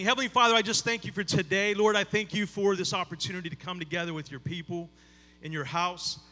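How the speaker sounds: heartfelt prayer, softening toward the close; earnest prayer. Real, not acted. Pastor praying over the congregation, earnest prayer.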